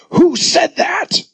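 high, slow angry shout; shouted demand. Retold or imitated. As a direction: bellow it at the crowd. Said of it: "he shouted".

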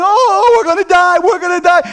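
high, panicked wail of scared fishermen; panicked disciples. Retold or imitated. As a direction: cry out like you're sinking. Disciples crying out in the storm.

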